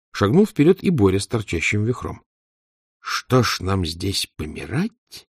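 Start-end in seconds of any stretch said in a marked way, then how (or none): 3.0-5.3 slow and gloomy. Acted. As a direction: drag it out, darkly. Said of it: "мрачно спросил Лёня".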